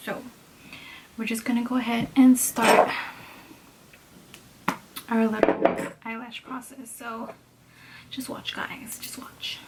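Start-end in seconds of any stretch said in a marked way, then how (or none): 6.1-9.6 hushed whisper to viewers. Real, not acted. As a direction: breathe it softly. Showing the lash process quietly.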